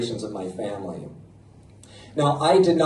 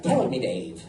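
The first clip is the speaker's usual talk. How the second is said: low, softer put-on Irish voice; leprechaun-like Irish accent; 8 semitones lower, 5 dB quieter than usual. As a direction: do an awful mock-Irish old man. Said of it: "I sound like a leprechaun".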